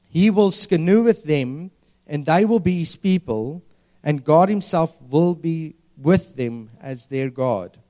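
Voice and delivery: slow, measured Bible verse; scripture reading. Acted. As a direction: read it out deliberately, as proclamation. Reads scripture aloud.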